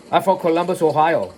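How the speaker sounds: a weak attempt at a San Juan accent. Frankie answering Piper's question, poor San Juan accent. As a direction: lightly imitate a San Juan accent, badly. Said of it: "answered me in his San Juan accent".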